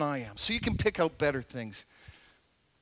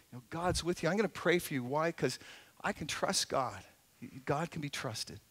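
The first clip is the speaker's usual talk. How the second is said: soft, low comfort; hushed parental reassurance; reassuring parent; 3 semitones lower, 7 dB quieter than usual. Acted. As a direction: gently reassure a worried child, quietly. Acts parent reassuring worried child.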